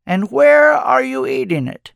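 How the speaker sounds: high, stretched stress on "where"; playfully pointed follow-up question; insistent question. A narrator's reading. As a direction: hit "where" high, pressing the puzzle. Old man presses with second question.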